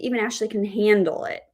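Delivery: HANDLE given the sentence's weight; stress on HANDLE. Shown as a demonstration. Teacher says she won't break down, stress on HANDLE. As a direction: lean on HANDLE as the line ends. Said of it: "our word stress is really on the act of handling".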